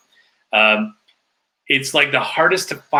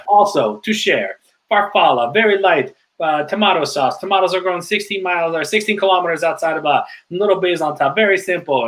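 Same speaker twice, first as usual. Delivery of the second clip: Italian waiter; 5 semitones higher than usual. Retold or imitated. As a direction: sell the dish like a charming Florentine server. Retells Italian waiter's pitch.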